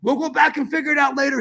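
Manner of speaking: quoting dad. Retold or imitated. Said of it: "he goes".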